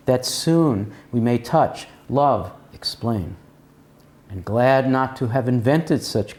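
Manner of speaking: poem reading. Acted. Reads the poem as conclusion.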